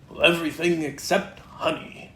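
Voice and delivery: lightly voiced bouncy Tigger; a hint of excited Tigger at the mirror.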